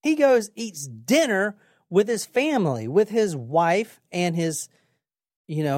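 normal talking voice

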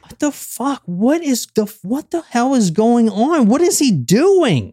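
high, startled and confused; Wayne, locked outside, hearing screams, startled and baffled; baffled alarm. Retold or imitated. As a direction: someone outside hearing something awful. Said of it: "Wayne Henley is just like".

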